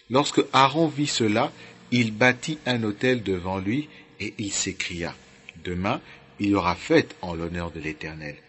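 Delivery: measured Bible reading, phrase by phrase; scripture reading. Real, not acted. Preacher reads the golden calf story to listeners, as scripture reading. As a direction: read it out solemnly, letting verse endings drop. Reads Exodus chapter aloud.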